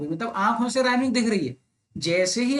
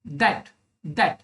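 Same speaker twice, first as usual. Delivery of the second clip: syllable counting; 3 semitones lower than usual. Shown as a demonstration. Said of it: "मैं syllable count करूंगा".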